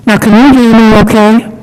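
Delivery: muffled behind a mask; speaking through a mask; through a face mask. Real, not acted. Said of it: "very difficult to talk through a mask".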